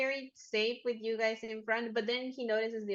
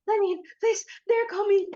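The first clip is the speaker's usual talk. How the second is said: high, loud begging to be let in; panicked, panting plea; 10 semitones higher, 11 dB louder than usual. Acted. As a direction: plead as if being chased. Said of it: "he is panting".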